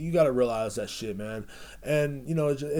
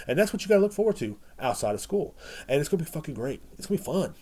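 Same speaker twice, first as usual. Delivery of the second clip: sarcastic cheer; 6 semitones higher than usual. Real, not acted. Sarcastic cheer about future.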